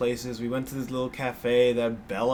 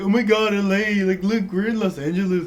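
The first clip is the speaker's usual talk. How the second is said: put-on valley girl voice; 6 semitones higher, 4 dB louder than usual. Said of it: "It's like".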